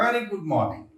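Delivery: a little pleasure in the greeting; smiling, pleased reply. Shown as a demonstration. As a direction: sound mildly glad to meet them. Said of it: "थोड़ा सा face पे pleasure, थोड़ी सी खुशी".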